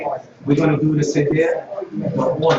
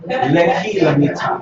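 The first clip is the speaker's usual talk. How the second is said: slow demo; 3 dB louder, slower than usual. Shown as a demonstration. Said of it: "learn how to say stuff like that".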